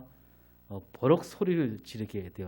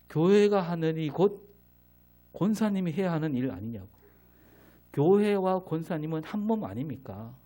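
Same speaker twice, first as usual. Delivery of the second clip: raised, higher mock rebuke; retold shout; 4 semitones higher, 3 dB louder than usual. Young preacher scolds the deaconess over her complaints, retold loud rebuke. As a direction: replay the outburst at the deaconess, loudly. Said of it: "그렇게 큰 소리로, 어, 소리친 거죠".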